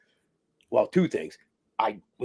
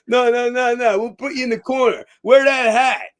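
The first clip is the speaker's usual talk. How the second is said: imitated reassurance; 9 semitones higher, 7 dB louder than usual. Casting guy reassures.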